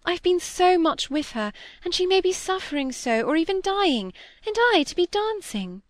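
put-on girl upset at the thought of dancing; distressed pleading. A narrator's reading. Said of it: "cried Molly".

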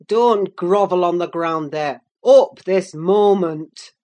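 loud, scornful command; loud bullying order; shouted. A narrator's reading. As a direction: bellow the order, drawing out the last words. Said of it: "he shouted".

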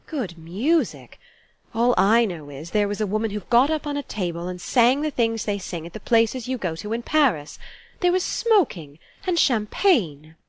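disapproving mother, stretching the shocking words; scandalised. Acted. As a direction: recount it with prim outrage. Mother scandalised, echoing son's words.

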